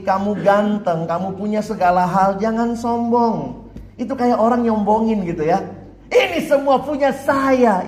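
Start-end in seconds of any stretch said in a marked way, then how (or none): 6.1-7.9 slow, higher boast through laughter; laughing boast. Acted. Proud human boasting everything is his, laughing. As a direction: brag while laughing. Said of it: "Ibu kosnya ketawa".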